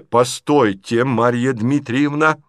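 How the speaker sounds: slow, loud, shaking stop; muffled shaken voice. Acted. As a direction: halt her, voice muffled but shaken. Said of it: "глухим, но потрясающим голосом". (глухо, но потрясённо)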